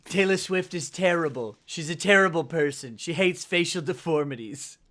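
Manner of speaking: lightly done political impression; Donald Trump. Co-host mocking a pop star as the politician, light Trump impression. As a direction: deliver short verdicts with a hint of impression. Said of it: "I can't do a Trump".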